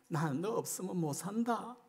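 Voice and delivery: softly, as God confessing need; gentle heartfelt declaration; quiet tender plea. Acted. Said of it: "하나님의 마음이".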